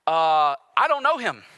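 high, loud panicked denial; flustered denial. Retold or imitated. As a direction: blurt it out to get them off your back. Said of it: "Peter goes".

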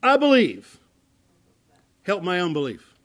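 desperate plea cried aloud; crying out. Acted. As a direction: cry it out in desperate faith. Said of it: "cried out".

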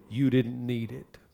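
soft, gentle retold counsel; quiet pastoral reassurance; loving. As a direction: let her down gently, quietly. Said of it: "I said lovingly to her".

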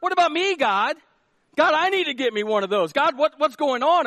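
a lightly voiced Adam whining to God; Adam pleading with God. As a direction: beg God for a partner, half-joking.

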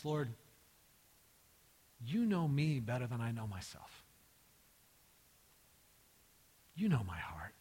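subdued, worn-out plea sinking low; all you have left to say, said with long pauses; mildly exasperated surrender, falling away; grieved exasperation. Acted. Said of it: "He's exasperated".

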